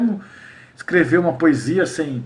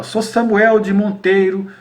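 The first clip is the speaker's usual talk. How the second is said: measured, slightly louder cordel recital; slow-paced poem reading; verse recitation; 3 dB louder, slower than usual. Shown as a demonstration. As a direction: recite the stanza with deliberate rhythm. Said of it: "eu vou dar um exemplo aqui".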